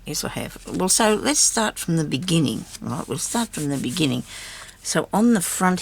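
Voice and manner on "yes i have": whispering. Real, not acted. Muttering to herself.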